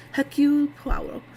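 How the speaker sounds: attempted French accent. Shown as a demonstration. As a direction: have a go at saying it with a French accent.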